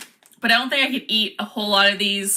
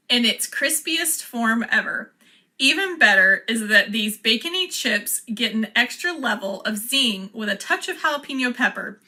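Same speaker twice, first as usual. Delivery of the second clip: ad read. Acted. Reads the package blurb aloud.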